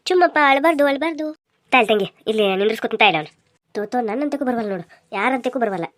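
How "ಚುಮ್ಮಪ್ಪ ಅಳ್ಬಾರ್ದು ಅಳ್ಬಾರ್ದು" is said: put-on raised-pitch soothing of a baby; baby talk. Telling a baby not to cry, in high baby talk. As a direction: hush the baby in a high, loud coo.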